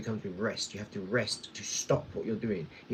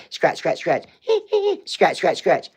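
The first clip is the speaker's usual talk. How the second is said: mock scratching; 5 semitones higher, 9 dB louder, slower than usual. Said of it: "she's like".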